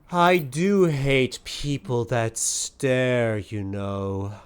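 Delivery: slow, deliberate, lightly menacing auntie voice. Acted. Viola turns on the staring eyes, slow and menacing. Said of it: "uh, she says".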